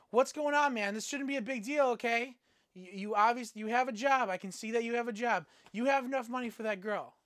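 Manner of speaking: hammed-up angry pressure; mock furious pimp. Pimp angrily pushing the narrator to pay. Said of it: "he was absolutely furious".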